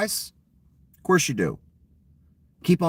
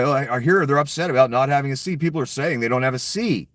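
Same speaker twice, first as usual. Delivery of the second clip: quick, sneering mock of a dismissive leader; mocking imitation, fast and dismissive; condescending mockery; 4 semitones higher, faster than usual. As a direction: rattle it off fast like you couldn't care less. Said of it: "in a very condescending, like, fucking making fun of Ukraine way".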